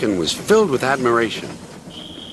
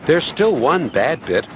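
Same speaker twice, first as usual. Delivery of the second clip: warning; 4 semitones higher than usual. Acted. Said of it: "warned Rusty".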